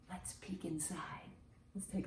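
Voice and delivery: hushed secret whisper. Acted. Teacher whispering to the children while peeking into the egg. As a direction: whisper as if not to wake it.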